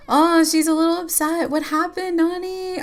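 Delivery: startled, checking what went wrong; surprised concern. Real, not acted. Player asking upset sim Nani what happened, concerned.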